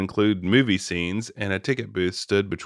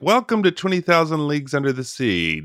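ringmaster. Pretend. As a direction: announce it like a circus ringmaster. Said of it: "have a carnival, like, feel".

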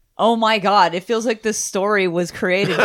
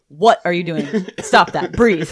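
imitated delivery; 5 dB louder than usual. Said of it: "I love his delivery".

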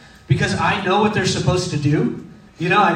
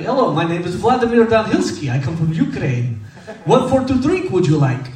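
put-on Ukrainian accent. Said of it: "talked like this all night".

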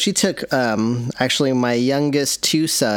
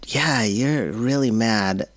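calm reflecting; slower than usual. Retold or imitated. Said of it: "I was really listening".

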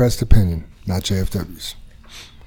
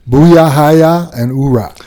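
gung-ho cheer; 3 semitones higher, 5 dB louder, slower than usual. Acted. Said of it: "I wanna end it with either".

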